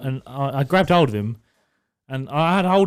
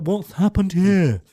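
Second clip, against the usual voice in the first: imitated demand; 6 semitones higher, 4 dB louder, much slower than usual. Imitating the woman copper asking.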